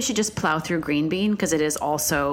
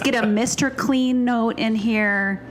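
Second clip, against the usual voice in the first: imitating food makers; 7 semitones higher, 4 dB louder than usual. Imitating food makers' bright pitch.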